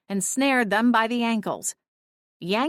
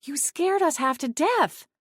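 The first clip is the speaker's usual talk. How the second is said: higher sharp snap; snapped; 8 semitones higher than usual. A narrator's reading. Cora snapping at Clint after the scare. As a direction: bite the words at him. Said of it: "I snapped at Clint".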